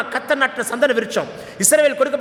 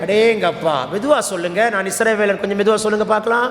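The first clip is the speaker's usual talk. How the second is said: low-pitched, mock-approving jibe; sarcastic teasing; 4 semitones lower than usual. Real, not acted. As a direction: tease the weak response with dry irony. Teases congregation for weak response.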